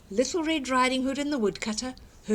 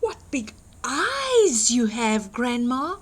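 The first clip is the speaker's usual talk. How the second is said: put-on slow, amazed girl; wondering girl; 4 dB louder than usual. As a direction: stare in wonder. Girl questions the wolf.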